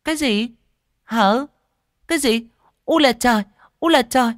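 very high, loud scornful shrew; sour, sharp-tongued. A narrator's reading. Fat woman rejects the seller's plea, sour and sharp-tongued. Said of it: "hứ một cái chua ngoa".

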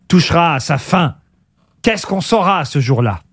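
slow, suspenseful quiz host; quiz question reading. Real, not acted. Host puts riddle to caller, slow suspenseful reading. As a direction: spell it out slowly, pause between phrases.

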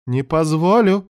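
high, forceful objection; protesting. A narrator's reading. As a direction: cry out in high-pitched protest. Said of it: "запротестовал Мелайдес".

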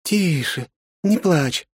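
high, gentle woman's voice; soothing woman. A narrator's reading. Aunt soothes the crying girl gently. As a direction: comfort a crying child. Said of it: "прошептала земля".

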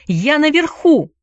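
high, exultant call; triumphant relief. A narrator's reading. Boy safe up the tree, triumphant cry. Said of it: "звучало торжество и облегчение".

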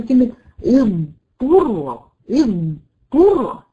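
اضطر drawn out with a long heavy ض then a hard ط; slow model reading of اضطر; very slow demo. Shown as a demonstration. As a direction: stretch the ض in اضطر before hitting the ط. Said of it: "في كلمة مشهورة جدًا".

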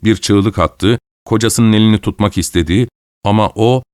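usual speaking voice

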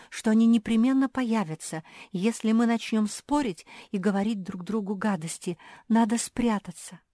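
plain reading voice

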